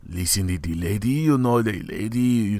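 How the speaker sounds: light Haitian accent playing a crude uncle; lightly voiced Haitian uncle giving advice; a hint of a Haitian accent. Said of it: "I'm doing a Haitian accent".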